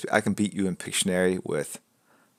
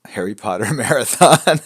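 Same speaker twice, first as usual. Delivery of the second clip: reading it out through giggles; can't keep a straight face; louder, giggling read of a chat line; laughing; 5 semitones higher, 10 dB louder than usual. Real, not acted. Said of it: "I don't know why I'm laughing".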